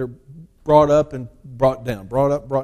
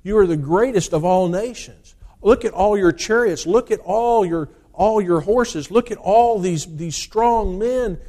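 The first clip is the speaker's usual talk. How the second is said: lightly voiced general boasting to Xerxes; general urging the king; 4 semitones higher than usual. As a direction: pump up the despairing king about his army. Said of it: "He said".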